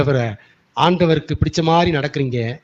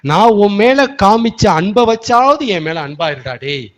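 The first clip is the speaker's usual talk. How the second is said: louder pleading cry as God; urgent plea as God; 3 semitones higher, 5 dB louder than usual. Acted. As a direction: press the plea home, louder. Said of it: "எப்படி சொல்றாரு?".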